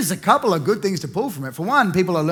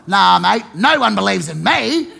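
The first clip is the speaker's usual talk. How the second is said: loud self-pity; 4 dB louder than usual. Real, not acted.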